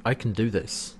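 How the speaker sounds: low, soft, detached murmur; disconnected voice. Retold or imitated. Imitating John looking at his hands, disconnected voice. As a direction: say it softly and low, as if far away. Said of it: "very disconnected sort of voice".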